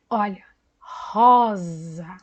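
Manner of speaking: rosa with the S sounding as Z; slow model word. Shown as a demonstration. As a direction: draw out rosa so the Z is clear. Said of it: "tem som de Z".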